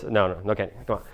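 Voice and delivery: unruffled parent saying no; centered, cool parent. Acted. Calm parent to whining kid, cool and unbothered. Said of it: "centered and cool or whatever".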